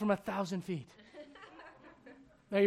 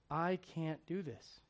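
wife's words; 4 semitones lower, 10 dB quieter, slower than usual. Retold or imitated. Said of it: "You know what her words were?".

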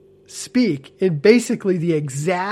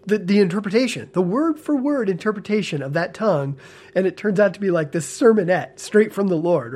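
smiling voice; 3 semitones higher than usual. Real, not acted. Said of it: "hear a smile in my voice".

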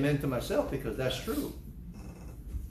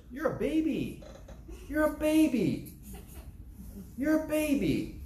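preaching taunt; 9 semitones higher than usual. Real, not acted. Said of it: "Say with me".

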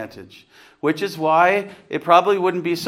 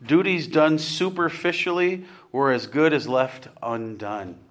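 quoting slowly; slower than usual. Real, not acted. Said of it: "He says".

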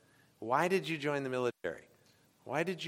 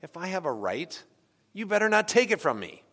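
mock defensive snap; 5 semitones higher than usual. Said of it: "We naturally think".

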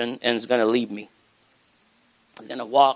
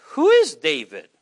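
scornful Nabal; 5 dB louder than usual. Retold or imitated. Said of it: "Nabal answered".

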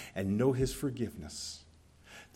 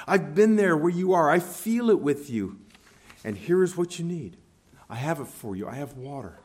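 water vendor's call; 2 semitones higher, 4 dB louder than usual. Acted. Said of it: "this voice says".

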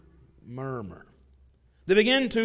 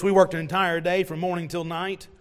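indignant workers' complaint. Pretend. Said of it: "said something like this".

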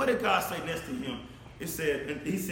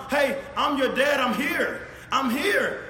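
put-on louder, higher call to a scared child; 4 semitones higher, 4 dB louder, slower than usual. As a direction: call out to reassure the child, raised voice. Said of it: "you reach out and yell to the son".

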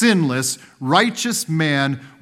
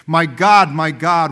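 a loud anguished cry to God; Jesus on the cross crying out to God; 6 dB louder than usual. A narrator's reading. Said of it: "crying out with a loud voice".

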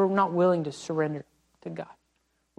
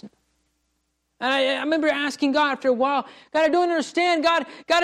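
raised, anguished plea to God; retold desperate prayer, voice lifted; pleading prayer; 5 semitones higher than usual. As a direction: cry out why, pitch up and pressing.

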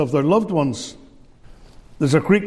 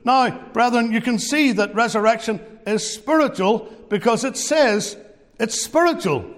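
raised pitch, leaning on each "spiritual"; stress on spiritual; 5 semitones higher than usual. Retold or imitated. Scholar concluding to brethren, stressing "spiritual". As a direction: make "spiritual" the point of the argument. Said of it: "put all the emphasis on the word spiritual".

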